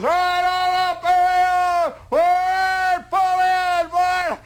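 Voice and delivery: high, loud sergeant calling the march back up; sergeant's call. Retold or imitated. Sergeant ordering the resting troops up, high and loud. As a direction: bark them back onto their feet. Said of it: "you hear the whistles".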